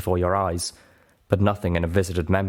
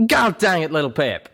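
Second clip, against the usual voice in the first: loud, higher angry outburst; angry growl; 9 semitones higher, 5 dB louder than usual. Acted. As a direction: growl it in frustration. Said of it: "Calamity growled back angrily".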